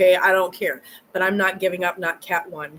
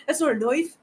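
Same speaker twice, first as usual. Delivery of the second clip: higher, hammed-up Aussie accent with "noife"; Australian accent; 6 semitones higher than usual. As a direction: imitate Crocodile Dundee in a broad Australian accent. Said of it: "that's my best Australian accent".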